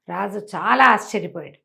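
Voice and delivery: plain reading voice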